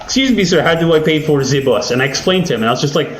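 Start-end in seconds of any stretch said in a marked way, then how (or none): 0.0-1.9 higher-pitched, badly faked French accent; attempted thick French accent. French tourist asking how to pay for the bus, mock French accent. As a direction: put on a clumsy French accent. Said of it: "in a very thick French accent".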